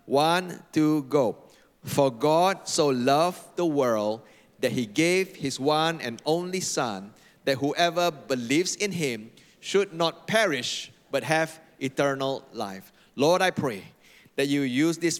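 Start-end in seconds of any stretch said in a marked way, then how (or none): 1.8-12.9 slow, measured group recitation; slow, deliberate verse reading; reciting together. Real, not acted. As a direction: lead the congregation through it at a slow, even pace.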